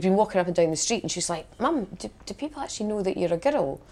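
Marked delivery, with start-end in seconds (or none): 1.6-3.8 daughter's voice. Retold or imitated. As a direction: lightly voice a daughter quizzing her mum. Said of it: "and she said to me".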